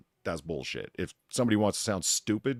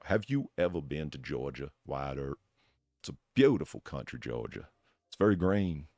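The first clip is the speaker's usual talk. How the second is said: put-on low, soft courtly Georgian accent; gentle Southern Georgian accent; 6 semitones lower, 3 dB quieter than usual. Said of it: "he takes on that courtly Georgian".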